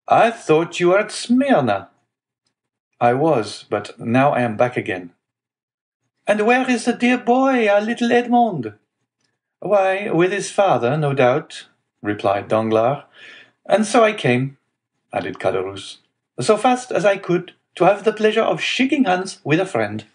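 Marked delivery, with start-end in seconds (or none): 0.1-11.7 hearty, wheedling neighbor in a high voice; Caderousse. A narrator's reading. Neighbor retells his conversation. 13.6-20.0 hearty, wheedling neighbor in a high voice; Caderousse. A narrator's reading. Figure of visiting neighbor.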